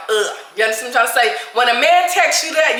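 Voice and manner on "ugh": short groan of disgust; mock disgusted groan; disgusted ugh. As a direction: scoff it off with an ugh. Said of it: "until it's just like".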